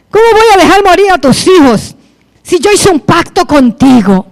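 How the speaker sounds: God scolding, building in force; reproachful God. Retold or imitated. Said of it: "Pareció un reproche".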